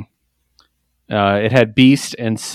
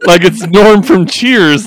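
normal talking voice

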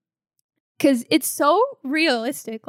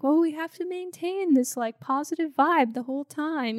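higher, chirpy upbeat class voice; chirpy, forced positivity; fitness instructor; 4 semitones higher than usual. Retold or imitated. Lightly mocking upbeat tone. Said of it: "a air of".

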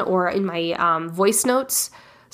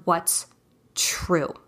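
whisper; 3 semitones lower, 6 dB quieter than usual. Real, not acted. Stressing the key word.

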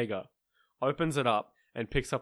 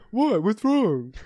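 innocent what; 8 semitones higher, 4 dB louder, slower than usual. Retold or imitated. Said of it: "And he was like".

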